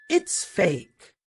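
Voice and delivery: mild tremble, slowing toward the end; a touch of shaky denial; trembling voice. Acted. Tari denies the video to the crowd, trembling. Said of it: "her voice trembling".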